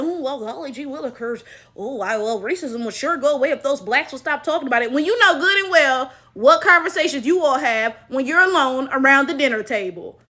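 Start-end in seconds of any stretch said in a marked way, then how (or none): 0.0-4.9 quiet, folksy mock voice; hokey white person voice. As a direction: play a wide-eyed gee-whiz bigot. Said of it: "you gotta sit there and gaslight".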